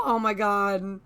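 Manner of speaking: loud breathy gush; overwhelmed by cuteness. Real, not acted. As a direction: gasp it out, smitten. Gushing over cute character.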